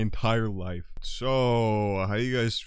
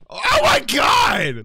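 shout; 13 dB louder, much slower than usual. Real, not acted. Startled in game.

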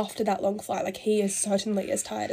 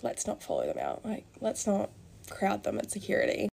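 hushed aside; 7 dB quieter than usual. Retold or imitated. Daughter quietly telling Mum not to crowd the celebrities, hushed. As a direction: murmur it discreetly to Mum.

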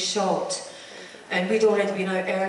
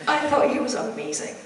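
filling up; 4 semitones higher, 4 dB quieter than usual. Real, not acted. Remembering the late John Hurt, voice catching with tears. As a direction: voice catching with real emotion. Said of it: "I'm filling up with this".

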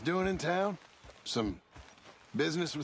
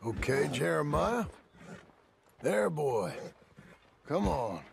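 slow, gentle calming of a skittish horse; soothing a horse; slower than usual. Acted. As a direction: settle the horse down easy.

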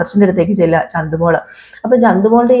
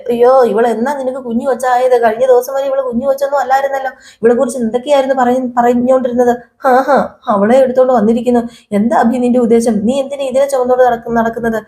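raised, indignant retelling of her rant; imitating an angry wife; 4 semitones higher than usual. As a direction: huff at him like the jealous sister-in-law, pitched up. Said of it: "ദേഷ്യപ്പെടുകയാണ് കേട്ടോ".

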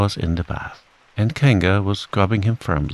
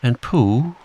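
plain reading voice

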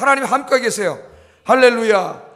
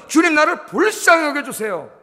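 earnest prayer; 6 semitones higher than usual. Shown as a demonstration. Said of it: "우리 기도는".

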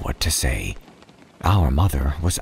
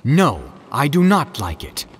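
indignant fish; 8 semitones higher than usual. A narrator's reading. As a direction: scold the cat in outrage. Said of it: "said our fish as he lit".

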